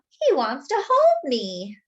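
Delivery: slow, swooning and pleased; delighted. Acted. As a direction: savour it, charmed.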